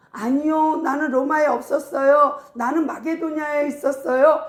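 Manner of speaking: insistent mock denial; arguing in defence. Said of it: "하고 변론하고 있다고요".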